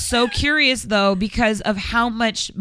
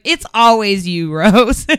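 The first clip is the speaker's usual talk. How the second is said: louder, slower mock mom; 6 dB louder, slower than usual. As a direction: quote mom teasing, drawn out. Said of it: "My mom was like".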